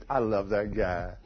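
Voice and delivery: low, slow, softened swoon; hushed, lingering affection, retold; retold adoring wife. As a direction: imitate a wife quietly, slowly savoring her love. Wife secretly adoring her husband.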